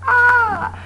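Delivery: a hint of a panicked little apple. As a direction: call out for help, playfully. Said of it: "he yells a little bit more".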